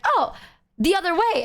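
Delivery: high, airy mock ditz voice; airy ditzy friend. Zeta answers the streamer dreamily about the shopping center, high and airy. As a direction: play a dreamy clueless friend. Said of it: "she's like".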